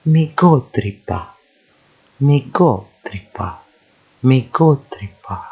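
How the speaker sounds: mi go tripa as one unit, GO stressed; joined word parts. Shown as a demonstration. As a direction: link mi go tripa, hitting GO and falling after. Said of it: "move on to the next one".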